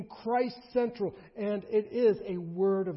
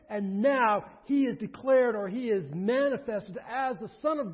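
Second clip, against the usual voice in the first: louder, higher pulpit delivery; emphatic preaching; 4 semitones higher, 9 dB louder than usual. Acted. Preacher summing up the apostles' message to his congregation, emphatic preaching. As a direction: drive each point home with force.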